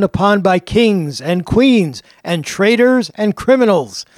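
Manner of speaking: dramatic storyteller, slowing on key phrases; tour guide spiel. Shown as a demonstration. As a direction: sweep the crowd into the history. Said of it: "I'll just give you the opening spiel".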